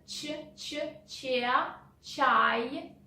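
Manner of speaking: Ч, ч, че said softly one by one, building up to чай; isolated ч drill. Shown as a demonstration. Teacher isolating the ч sound for learners. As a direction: break the sound apart, Ч, ч, че, then чай. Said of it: "pay attention".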